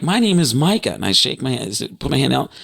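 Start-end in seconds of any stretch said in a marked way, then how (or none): 0.0-0.9 high, eager self-introduction; fired up. Retold or imitated. Offering a hand to a new friend, fired up. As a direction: introduce yourself excitedly, pitched well up. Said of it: "I'm getting all fired up".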